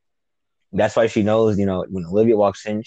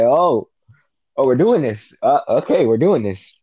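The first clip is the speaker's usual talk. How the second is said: pleasantly surprised; 3 semitones higher than usual. Retold or imitated. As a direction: re-enact a viewer's delighted realisation. Retold reaction to love confession.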